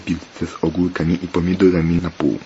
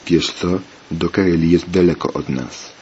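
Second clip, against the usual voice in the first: ordinary delivery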